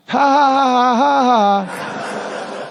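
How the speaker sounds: a hammed-up ha ha ha that dies away; mock laugh.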